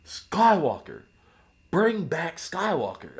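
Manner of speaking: slow, emphatic fan demand; crowd calling out. Retold or imitated. Retold livestream crowd demanding his return.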